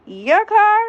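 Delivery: shrieked disbelief at the ex's claim; incredulous shriek. Retold or imitated. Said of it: "I'm looking at him like".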